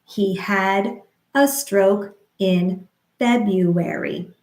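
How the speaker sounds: slow, syllable by syllable; slow rhythmic demo. Shown as a demonstration. Speech therapist modeling a sentence slowly, rhythmic. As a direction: model it slowly for stroke survivors. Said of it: "We could say".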